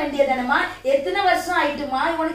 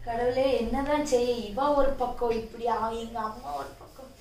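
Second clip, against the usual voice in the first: weary despair; 3 semitones lower, 8 dB quieter, slower than usual. Acted. Son despairs between wife, mother.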